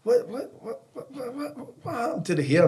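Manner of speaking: high, stammering mock shriek of disbelief; shocked mum. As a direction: imitate a mum horrified at the haircut. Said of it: "my mum's like".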